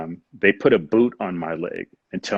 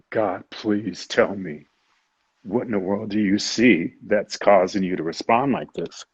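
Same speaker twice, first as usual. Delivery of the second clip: retold pleading. Patient begs the crying ultrasound technician for an answer, pleading. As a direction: plead earnestly, giving each opening word room.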